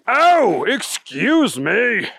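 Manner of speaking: high small voice calling out from behind; a startled little creature speaking up; mystery voice. Acted. Unseen bunny calls out to the driver, high and polite.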